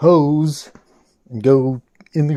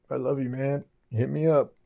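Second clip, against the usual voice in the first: tag; 6 dB quieter than usual. Real, not acted. Heartfelt message to his friend.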